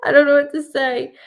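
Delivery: half-shouted disbelief; loud flustered exclaim. Retold or imitated. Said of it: "I'm like".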